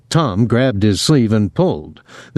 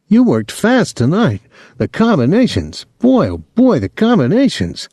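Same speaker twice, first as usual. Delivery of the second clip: high-pitched admiring gush; excited; 8 semitones higher than usual. A narrator's reading. Claude praising Tom's punches afterwards, excited. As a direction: rave about it, voice leaping up. Friend exults after the fight.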